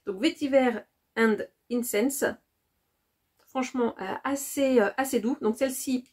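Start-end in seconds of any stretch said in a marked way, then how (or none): 0.2-2.2 candle name read in English with a French accent. Shown as a demonstration. Reading the candle name to viewers in French-accented English. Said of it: "avec mon magnifique accent".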